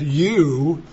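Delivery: drawn-out stress on "You"; emphatic YOU. Shown as a demonstration. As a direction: hold "You" as the emphatic word. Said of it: "that is emphatic".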